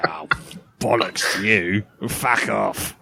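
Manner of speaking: a lightly voiced cheeky old lady telling you off; Les Dawson old lady. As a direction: nan dropping the facade, a hint of a crabby old dear. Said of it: "Les Dawson old lady thing".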